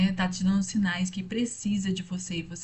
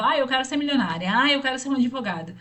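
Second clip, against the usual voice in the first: naive dreamer; 5 semitones higher, 4 dB louder, faster than usual. Retold or imitated. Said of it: "Por exemplo".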